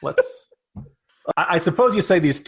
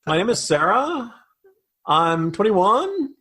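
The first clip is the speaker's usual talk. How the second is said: upspeak; 3 semitones higher, slower than usual. Retold or imitated. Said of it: "You end up with upspeak".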